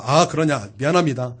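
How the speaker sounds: low, offhand retold apology; dismissive apology. Preacher retelling his apology to slip past quickly, dismissive. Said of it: "그냥 빨랑 그냥 넘어가기 위해서".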